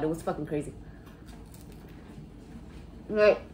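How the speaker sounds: chewing between words; talking while eating. Real, not acted. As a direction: mouth full of bread. Seen 0: Holds roll at mouth, bites and chews while talking throughout.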